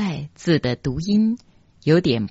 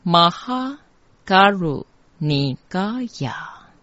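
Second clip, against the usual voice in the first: higher, measured mantra chant; mantra recitation; 4 semitones higher than usual. Shown as a demonstration. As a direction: recite it in short syllable groups. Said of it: "整句念起来".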